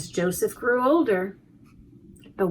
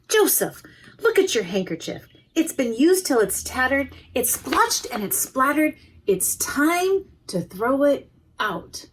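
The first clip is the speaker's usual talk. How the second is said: mother's voice; 4 semitones higher than usual. Acted. Mother scolds Joseph.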